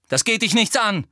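high, brusque put-down; gruff rebuff. A narrator's reading. Harry rebuffing Ginny, brusque. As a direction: shut them down brusquely. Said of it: "sagte Harry barsch".

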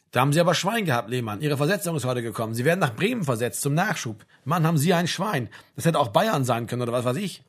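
lightly voiced sergeant, jovially congratulating; a touch of hearty barracks chumminess; Spieß. Sergeant breaks the good news. (leicht jovialer Spieß)

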